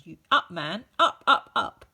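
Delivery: loud, rising angry orders; furious command. A narrator's reading. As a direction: yell him to his feet. Headmistress commanding.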